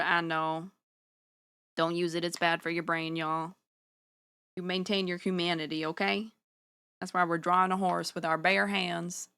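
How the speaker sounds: folksy put-on Southern accent. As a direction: give homespun advice in a Southern accent. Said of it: "I'm still Southern".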